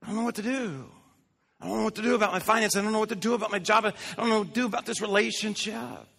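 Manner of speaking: lightly hammed-up worrying; mock fretting. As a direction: whine it like a worried person who can't decide. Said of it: "this, like".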